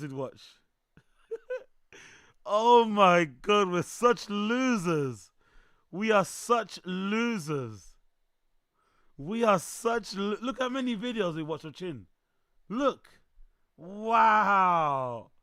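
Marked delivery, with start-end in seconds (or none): 1.3-11.3 slow, loud, laughing self-mockery. Real, not acted. Streamer laughs with chat at how many videos they watched. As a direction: laugh at yourselves, drawn out.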